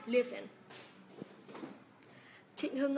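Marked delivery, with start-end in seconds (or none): 0.1-0.4 "lives in" run together through the z; linked z. Shown as a demonstration. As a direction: say "lives in" as one word, z voiced. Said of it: "nối âm z em nhá".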